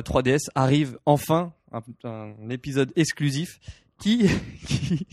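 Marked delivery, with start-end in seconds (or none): 1.7-5.1 cracking, failing voice; lost voice. Real, not acted. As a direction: voice giving out mid-sentence. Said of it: "j'ai plus de voix".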